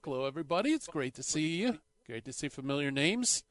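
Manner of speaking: slapback echo on the voice; like a stadium announcer's echo; echo mic. Real, not acted. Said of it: "The house has an echo mic".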